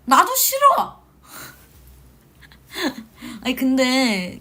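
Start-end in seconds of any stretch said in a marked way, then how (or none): 0.0-1.0 put-on high, loud childish shout; yelling back. Idol yelling back at the stubborn ghost. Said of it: "shouting back at the ghost". 2.7-3.4 short high laugh; burst of laughter. Real, not acted. Idol laughing after yelling at the ghost.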